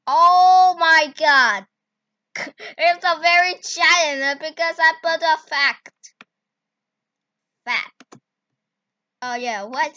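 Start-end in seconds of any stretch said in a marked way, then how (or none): 0.1-4.2 laughing disbelief. Real, not acted. Reacting to the giant figure.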